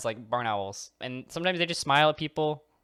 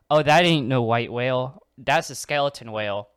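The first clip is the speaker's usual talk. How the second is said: mock alarm; 8 dB louder than usual. Boater realises it's skeleton.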